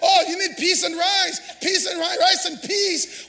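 lightly imitated Jamaican accent; a hint of Jamaican lilt, preacher's own voice. Preacher mimicking someone from Jamaica, light Jamaican accent. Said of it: "talking in Jamaica accent like that".

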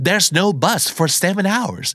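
high-pitched, wailing complaint; distressed pleading. Acted. Stranded caller tells a friend they are lost, distressed pleading. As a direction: complain helplessly with the pitch right up.

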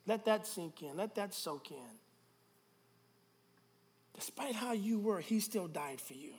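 soft, sober preaching; reflective hush. Real, not acted. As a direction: let it sink in, softly.

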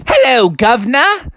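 high, jaunty wolf greeting; chirpy wolf. Acted. White Wolf greets frightened Froggy, chirpy. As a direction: greet cheerily with a rising lilt. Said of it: "And the wolf said".

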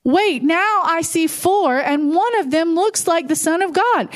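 mildly acted disbelief, pitch lifting; shocked king. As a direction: puzzle aloud as a startled king. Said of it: "the king is shocked and freaking out".

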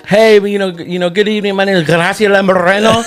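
high, bright on-air anchor read; news reporter voice. Retold or imitated. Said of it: "every time she goes on air".

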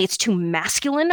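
real uptalk, rising at the end of "masculine". Real, not acted. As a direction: let "masculine" lift like an unsure question. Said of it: "I just uptalked it there".

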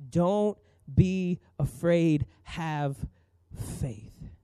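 very slow, tender, fading to a hush; gentle Jesus voice. Acted. Jesus reassuring the grieving father, slow and tender.

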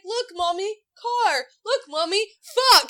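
put-on high, loud kid cheer of monster fuck; excited toddler. Mom imitating her son cheering over his monster truck, high and loud. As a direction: cheer like a thrilled little boy. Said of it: "he's like".

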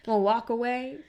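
hammed-up cocky sneer, high and loud; mocking bravado. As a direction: taunt him like it's a joke. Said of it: "James is like".

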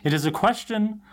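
put-on prim British voice; British accent. Imitating Wesley lecturing the group, put-on British voice. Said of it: "puts on his most, like, British voice".

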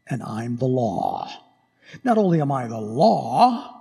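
a hint of a scornful emperor. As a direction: lord it over them lightly. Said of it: "He's gonna look at you".

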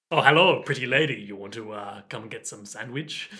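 put-on chat-up line in a muddled Liverpool-French accent; vague Liverpool-French accent. Greeting a pretty lady, hazy Liverpool-French accent. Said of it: "the accent that he's doing".

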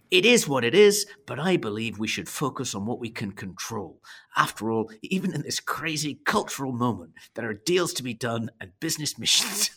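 mock Scottish accent; hamming up a Scottish sales pitch. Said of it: "Thor's Scottish accent".

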